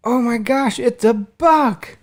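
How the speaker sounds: high-pitched imitation of an amazed child, drawn out at the end; daughter freaking out. Three-year-old sees dad's buck, imitated freaking out. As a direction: mimic a small kid's thrilled outburst, way up high. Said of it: "she's freaking out".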